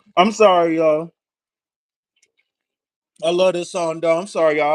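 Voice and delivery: talking with mouth full, eating while speaking. Talking between songs with food in the mouth: talking with mouth full. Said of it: "I got food all in my mouth".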